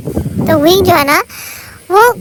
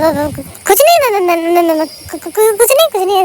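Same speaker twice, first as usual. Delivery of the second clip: 1 panicked stammer. Retold or imitated. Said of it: "realise होता है कि ... बवाल कर दिया".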